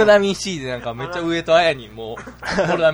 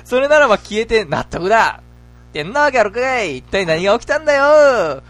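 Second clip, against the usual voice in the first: high, hammed-up retort; comic exasperated outburst; 7 semitones higher, 3 dB louder than usual. Teacher rejecting absurd explanation for vanished pupils, loud comic exasperation. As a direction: cry out in mock bewilderment.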